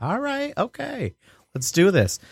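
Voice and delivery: 2 squeaky, hushed reluctant agreement; 3 a high, quiet "all right, okay" like giving in; 4 mock timid go-along; 1 high soft okay. Reluctant agreement in retold quote.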